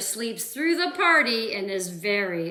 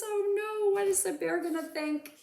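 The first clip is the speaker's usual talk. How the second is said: worried aside; 9 semitones higher, much faster than usual. Acted. Suspense aside to kids.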